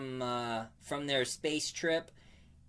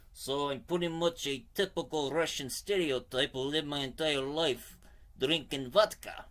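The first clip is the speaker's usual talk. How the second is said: put-on Russian accent. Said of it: "my Russian is pretty good".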